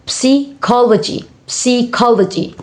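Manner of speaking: psychology with the first syllable set apart. Shown as a demonstration. Teacher showing four syllable word, syllable by syllable. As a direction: break psychology after psy. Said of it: "four syllable words".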